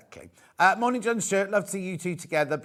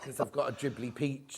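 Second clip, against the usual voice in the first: laughing; 2 semitones lower, 7 dB quieter than usual. Real, not acted. Laughing at own remark.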